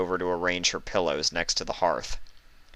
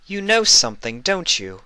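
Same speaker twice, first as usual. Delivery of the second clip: breathed realization; 10 semitones higher, 4 dB louder than usual. Acted. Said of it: "she breathed".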